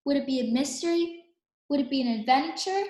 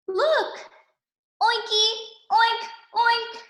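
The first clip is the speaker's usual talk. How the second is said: higher, cute pig sounds; high playful oinking; piggy oinks; 7 semitones higher, 3 dB louder than usual. A narrator's reading. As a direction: oink like a happy little pig. Pigs greeting in pig talk.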